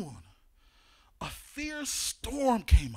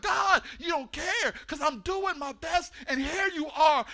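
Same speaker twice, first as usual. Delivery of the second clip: building accusation; 3 semitones higher than usual. Acted. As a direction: build from muttered hurt to outrage. Acted angry complaint to God.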